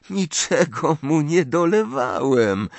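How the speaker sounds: amused, teasing denial; smiling reply. A narrator's reading. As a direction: say it through a smile. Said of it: "odparł Harry z uśmiechem".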